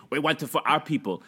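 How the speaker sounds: put-on Chinese accent. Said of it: "was that a Chinese accent?".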